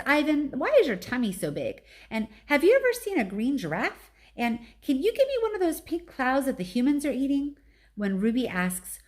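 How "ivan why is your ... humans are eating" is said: put-on higher eager child voice; chattering little elephant. A narrator's reading. Baby elephant peppers Ivan with questions, eager child voice. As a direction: rattle off questions like a curious child.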